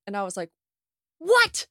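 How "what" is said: high, loud disbelieving yelp; hearing UK Mother's Day differs, shocked yelp; shocked what. Retold or imitated. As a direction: shriek it in disbelief.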